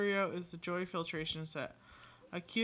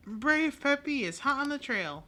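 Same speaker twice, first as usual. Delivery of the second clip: eager dog voice; 7 semitones higher, 8 dB louder than usual. Pretend.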